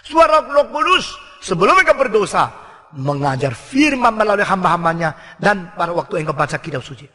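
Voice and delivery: ordinary talk, nothing marked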